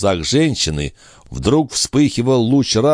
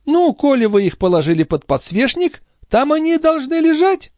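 put-on high, fast fussing old woman; mock-innocent old concierge. A narrator's reading. The concierge pretending not to know where the watch went, high and fussy. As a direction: play dumb, all fluster.

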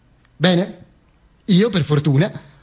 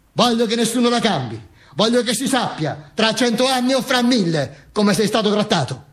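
higher, insistent wife; hint of an indignant widow, pitched up; lightly voiced wife; 4 semitones higher than usual. Wife demanding the world know his treatment, lightly voiced high insistence. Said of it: "Mi disse mia moglie".

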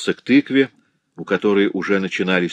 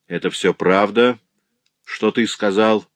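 surprised and irritated; 3 semitones higher than usual. Acted. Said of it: "удивлённым и раздражённым тоном".

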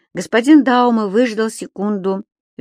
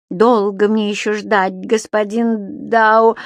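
reproachful; 3 semitones higher, 4 dB louder, slower than usual. Acted. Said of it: "с некоторым упрёком в голосе".

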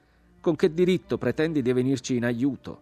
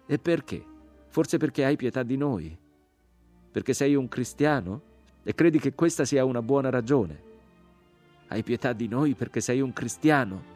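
high, raised, mocking questions; indignant interrogation; scornful cry; 6 semitones higher, 4 dB louder than usual. A narrator's reading. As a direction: challenge the rescuer with bitter questions. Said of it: "gridò la voce".

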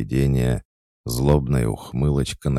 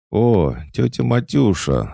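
high, loud joyful cry; delighted; 11 semitones higher, 6 dB louder than usual. A narrator's reading. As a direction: greet her, overjoyed. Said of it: "обрадовалась она". (радостно, восторженно)

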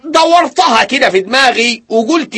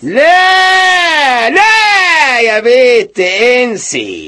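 drawn-out no; 4 semitones higher, much slower than usual. Acted. Husband stopping her.

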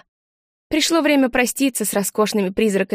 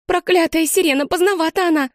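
higher, shaky-breath gasp of fright; breathless fear; 7 semitones higher than usual. A narrator's reading. Girl trembling in a doorway during the bombing, frightened gasp. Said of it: "выдохнула Анжела, дрожа всем телом".

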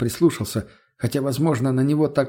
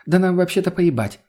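scoffing; 6 semitones higher than usual. Acted. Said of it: "фыркнула в ответ Лена".

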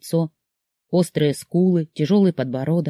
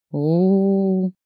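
drawn-out sorrowful oh; 3 semitones higher than usual. A narrator's reading. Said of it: "протянул незнакомец сокрушённо".

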